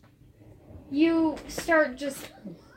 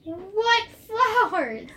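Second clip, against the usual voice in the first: puzzled character; 9 semitones higher, 4 dB louder, much slower than usual. Acted. GM as Kai, puzzled.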